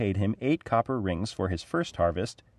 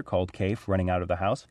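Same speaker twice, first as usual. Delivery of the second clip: ordinary delivery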